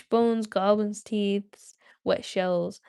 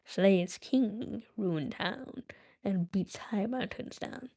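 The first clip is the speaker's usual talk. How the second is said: slow, creeping riddle voice fading to a hush; lightly voiced Gollum intoning a riddle; 4 dB quieter, slower than usual. Gollum poses his hardest riddle, slow and hushed.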